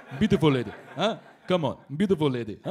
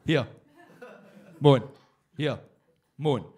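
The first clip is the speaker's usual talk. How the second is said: Scottish hawker call; 3 semitones lower, 4 dB louder than usual. Retold or imitated. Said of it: "Scottish guy going up to people going".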